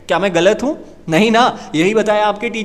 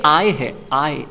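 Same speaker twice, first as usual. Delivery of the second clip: said lovingly; 5 semitones lower, slower than usual. Shown as a demonstration. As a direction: say आई tenderly, like calling a mother. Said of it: "बड़े प्यार से बोलो आई".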